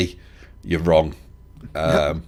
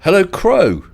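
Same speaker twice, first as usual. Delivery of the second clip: raised voice, calling someone; 10 semitones higher, 7 dB louder, slower than usual. Real, not acted. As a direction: call out across the line. Calling a silent caller.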